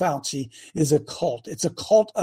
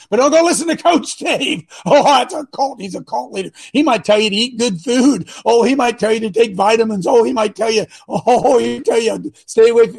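sarcastic; 4 semitones higher, 4 dB louder than usual. Acted. Sarcastic mockery of critics.

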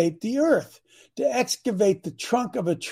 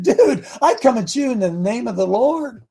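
acted cocky challenge, slightly raised voice; mild mock trash-talking; 4 semitones higher than usual. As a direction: retell it as fighting talk to a giant. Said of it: "He trash talked Goliath".

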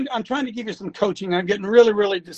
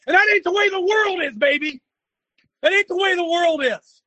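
yelling; 3 semitones higher than usual. Real, not acted. Coach yelling at audience.

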